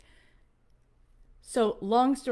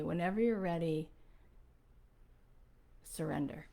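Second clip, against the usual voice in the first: hushed and gentle, fading to a near murmur; softly; 2 semitones lower, 6 dB quieter than usual. Retold or imitated. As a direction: say it softly, like an invitation to let go. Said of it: "She says it so softly".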